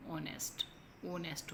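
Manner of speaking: ऑनेस्ट starting on the vowel, no h; teacher models ऑनेस्ट with the h dropped; silent h. Shown as a demonstration. Teacher to class, modelling ऑनेस्ट with silent h. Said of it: "ऑनेस्ट नहीं होता".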